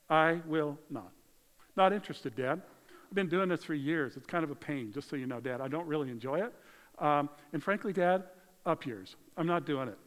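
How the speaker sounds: firm, punchy brush-off to Dad; disrespectful refusal. Acted. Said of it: "this is an incredibly disrespectful thing".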